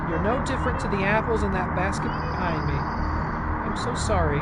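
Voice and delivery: put-on firm but pleading, a mother locking her child away; stern mother. Voices Mother figure reading game text.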